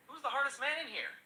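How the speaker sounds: mildly hammed-up hard-man challenge; acted yell. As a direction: yell it out to the whole pub. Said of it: "and yells".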